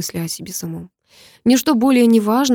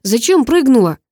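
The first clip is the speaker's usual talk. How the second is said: higher, louder demand; harsh demand; 5 semitones higher, 6 dB louder than usual. Acted. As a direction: push her hard on why. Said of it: "спросил я жёстче". (жёсткий упрёк)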